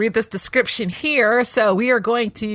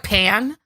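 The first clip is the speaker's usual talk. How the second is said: "Pan" split off and punched, held before a pause; exaggerated wrong stress. Host exaggerating a child actor's line, "Pan" stressed apart. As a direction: mimic the odd stress, isolating "Pan". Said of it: "emphasis on the wrong syllable".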